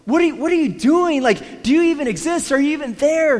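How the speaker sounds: psalmist's complaint. Acted. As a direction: hurl the questions at God in protest. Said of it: "the psalmist starts off just like".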